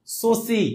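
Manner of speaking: "সসি" with hissing s sounds in place of sh; Kolkata pronunciation imitated. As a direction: mimic Kolkata "সসি" with a sharp dental s. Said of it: "কলকাতার দাদা বাবুরা কি করে".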